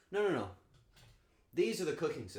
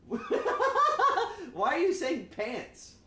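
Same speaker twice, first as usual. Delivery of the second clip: high, loud and slow through laughter; laughing disbelief; 8 dB louder, much slower than usual. Real, not acted. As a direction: laugh at the chat's mistake. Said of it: "laughing at chat".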